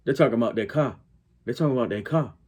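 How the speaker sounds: Southern-leaning Black Chicago "car", the r dropped; Black Chicago accent. Shown as a demonstration. Correcting a critic on local speech, Black Chicago accent. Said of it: "They're not talking like".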